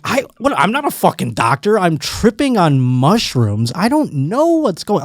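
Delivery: high-pitched, comic panic; retold freak-out. Tripping on mushrooms, telling paramedics he's no doctor, mock-panicked. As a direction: act out panicking, voice jumping up. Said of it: "I'm freaking out".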